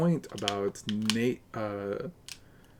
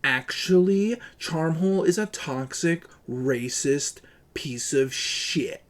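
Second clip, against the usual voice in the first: mock the tattling chatter lightly; mocking a snitch; 2 semitones higher than usual. Streamer mimicking a user reporting him to a rapper. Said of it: "tags her and says".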